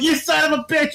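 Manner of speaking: high-pitched laughing-mad outburst at normal volume; mock outraged cry. Dreamer cursing the prankster who scared him, mock outraged cry. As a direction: cry it out high, drawing out the insult.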